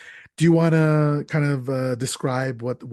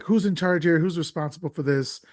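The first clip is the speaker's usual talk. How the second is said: mild mock yell, pitched up; retold yelling; 4 semitones higher than usual. Podcaster retelling the priest's outburst, mildly mock-yelled. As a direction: imitate an indignant demand without really shouting. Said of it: "Father Grandier is yelling".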